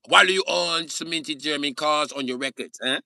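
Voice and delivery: put-on high German-accented interrogation; mock German accent. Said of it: "They'll be like".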